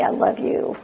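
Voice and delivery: breathy whisper of affection; whispered I love you. Retold or imitated. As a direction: whisper it tenderly to a friend. Whispering loving words to friend.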